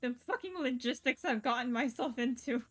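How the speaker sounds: laughing while talking, embarrassed; words breaking into real giggles; laughing through words. Real, not acted. Laughing at own awkward reading.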